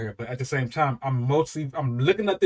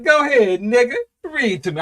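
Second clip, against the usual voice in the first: eager urging; 7 semitones higher, 7 dB louder than usual. Retold or imitated. Dad urging son.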